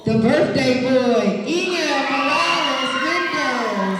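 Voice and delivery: slow drawn-out winner call; calling the birthday boy up, drawn out loud; announcer call. Acted. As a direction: stretch the name out like a host.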